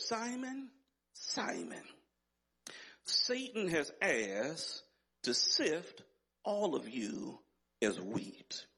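slow, grave scripture quote with long pauses; measured solemn warning. Retold or imitated. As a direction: let each phrase sink in, dropping away at the end. Quoting Jesus warning Simon, measured first reading.

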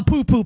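poo-poo leaned on a little harder; stress on poo-poo. Shown as a demonstration. Mocking the Vikings roster, light stress on poo-poo. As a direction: give poo-poo a light playful push. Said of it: "emphasis on poo-poo".

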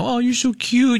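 high cooing voice to a pet; doting baby talk. Retold or imitated. Owner cuddling her rescued dog, high doting baby talk. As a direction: coo at the dog like it's a baby.

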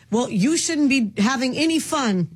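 sarcastic put-down with a laugh; imitating a resentful boyfriend's put-down; mocking put-down. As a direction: mimic him scolding her, laughing. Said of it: "put the person down and say".

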